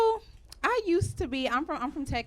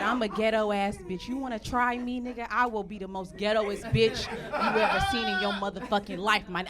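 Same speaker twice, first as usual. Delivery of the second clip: mock cussing rant. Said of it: "I was yelling and cussing so much".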